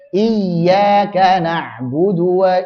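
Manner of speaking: slow chanted tajwid recitation; teacher models Quranic chant. Shown as a demonstration. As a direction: recite it slowly, melodic and drawn out.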